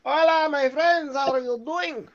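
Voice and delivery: high, slow put-on greeting voice, nothing like Jersey; failed New Jersey accent. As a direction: ham up a fake Jersey guy and miss completely. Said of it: "That's not a New Jersey accent at all".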